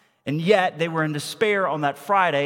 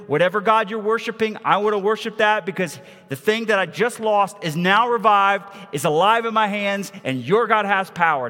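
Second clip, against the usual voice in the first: louder, excited awe; mother amazed; 5 semitones higher, 5 dB louder than usual. Acted. Grieving mother seeing her son alive, louder amazed outburst. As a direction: burst out in astonished faith. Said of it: "she sees".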